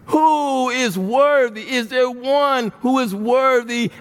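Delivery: slow proclaiming call; angel calling out. Acted. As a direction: call out across heaven. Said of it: "The angel is calling out".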